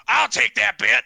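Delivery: high, loud call from the ring. Acted. Man in the ring takes a bet, calling out.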